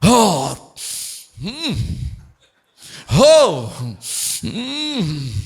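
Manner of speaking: exaggerated religious sighing and humming; mock pious prayer noises. Religious people about to pray, hammed-up pious moans. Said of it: "Elas mudam a entonação de voz".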